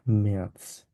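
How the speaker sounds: ম্যাথস slowly as "me-ats"; taught ending. Shown as a demonstration. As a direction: stretch ম্যাথস and close on TS. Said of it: "ছয়ের মতো উচ্চারণ হবে". (ম্যাথস ধীরে "মেআৎস")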